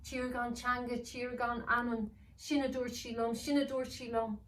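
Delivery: dazed elf repeating a spell; elf muttering incantation. Acted. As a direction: elf chanting spell in a daze. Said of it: "speaking to himself".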